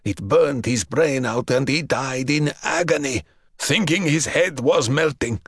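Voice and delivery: a lightly rasping, frightened captive; rasped. Acted. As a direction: gasp out the fear of poison. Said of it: "Dragozani rasped".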